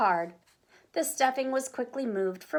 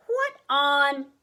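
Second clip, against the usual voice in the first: louder, higher startled question; alarmed surprise; 5 semitones higher, 6 dB louder than usual. A narrator's reading. Papa Bear notices the locks, alarmed surprise. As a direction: break off in alarm.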